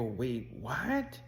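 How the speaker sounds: a stunned listener who can't believe it; stunned disbelief. Retold or imitated. Coach hears client was twelve.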